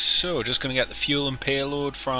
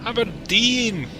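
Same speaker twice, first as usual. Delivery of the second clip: drawn-out call; 10 semitones higher, 5 dB louder, slower than usual. Acted. Announcing arrival city loudly.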